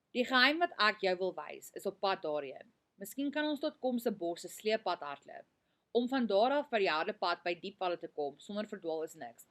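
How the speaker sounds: clear, lightly voiced read-aloud of the novel's dialogue; reading a story aloud. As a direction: read the passage to the class.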